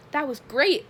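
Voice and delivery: high, loud excited exclamation; thrilled. A narrator's reading. Beverly hugs her friends after the escape, thrilled. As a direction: burst out with delight. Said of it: "Her eyes sparkled".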